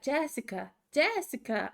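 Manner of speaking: imitated Brazilian accent calling a name. Parents' friends calling the daughter repeatedly, in a Brazilian accent. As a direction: call out with a light Brazilian accent. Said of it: "an accent 'cause they're Brazilian".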